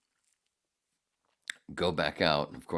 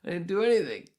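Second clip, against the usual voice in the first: retelling the stuck piss, mock high whine rising to a yelp; imitating panicked self; 7 semitones higher than usual. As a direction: act out his own baffled panic at the urinal. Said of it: "I'm like".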